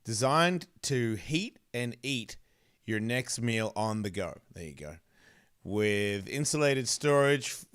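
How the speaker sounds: slow, careful sponsor read. Acted. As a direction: read the ad copy deliberately, slowly. Reads sponsor ad copy.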